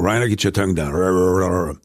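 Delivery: put-on accent coach. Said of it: "hat mir mein Accent Coach beigebracht".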